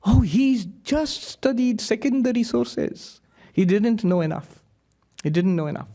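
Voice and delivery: light imitation of a Slovenian accent; hint of a Slovenian accent, slow and high at first; mild Slovenian accent put-on. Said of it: "he's a very strong Slovenian accent".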